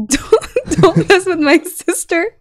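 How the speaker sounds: high mock threat through giggles; laughing retold warning. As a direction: draw out a warning while laughing. Retells warning the bully, laughing.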